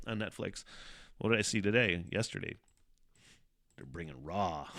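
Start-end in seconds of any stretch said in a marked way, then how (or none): 3.8-4.8 laughing. Real, not acted. Laughing at the news.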